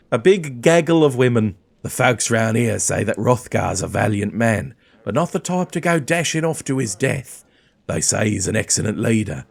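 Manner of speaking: burly dwarf warrior voice; accented dwarf fighter, measured and hearty; Hildreth. Acted. Dwarf greeting a new traveller, put-on accent.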